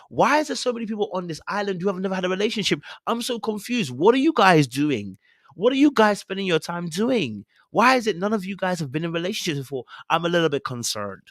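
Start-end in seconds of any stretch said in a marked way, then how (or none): 0.1-9.9 exasperated bafflement. Real, not acted. Rants at contestants, "so confused.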